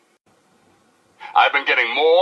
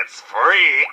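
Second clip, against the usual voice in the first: cheering shout; 5 semitones higher than usual. Acted. DJ cheers free water.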